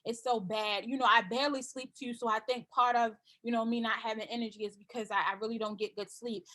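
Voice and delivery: low, soft, drained voice, dragging each complaint out; tired customer. Pretend. A customer moaning to the seller about no energy, low and soft. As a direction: play a worn-out client who can't sleep. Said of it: "or maybe they say".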